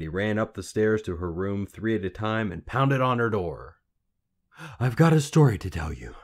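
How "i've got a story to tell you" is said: loud, higher breathless announcement; panting. A narrator's reading. Lad arriving from the stairs, panting. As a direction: gasp it out after running. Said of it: "he panted".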